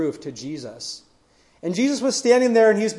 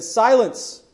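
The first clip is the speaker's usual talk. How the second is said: firm, slightly raised command, mildly acted; retold command; 4 semitones higher than usual. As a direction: give a short, higher-pitched order as if quoting it. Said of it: "he commanded".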